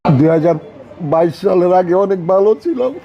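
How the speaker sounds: tearful, voice rising high; crying while talking; snotty crying. Real, not acted. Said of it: "আজকে ভাই কান্না করার দরকার নাই".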